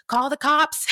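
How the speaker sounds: high, loud mock urging; hammed-up high, insistent lady voice; other lady. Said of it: "this other lady's like".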